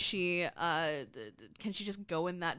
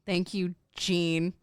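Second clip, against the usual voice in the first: loud sarcastic thanks; acted sarcasm, punched out loudly; 7 dB louder, much slower than usual. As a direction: thank them with heavy sarcasm. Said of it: "I say in a very sarcastic voice".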